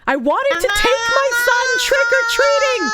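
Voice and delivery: high, loud incredulous outburst; outraged. Real, not acted. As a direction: blast it in disbelief. Outraged rereading of line.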